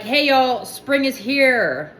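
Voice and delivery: lively hollered greeting, drawn out at the end; loud yellow. Acted. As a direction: announce it brightly, stretching the last words. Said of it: "yellow's loud".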